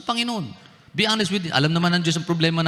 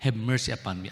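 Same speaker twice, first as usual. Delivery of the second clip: soft pleading prayer; 5 dB quieter than usual. Shown as a demonstration. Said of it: "But yung".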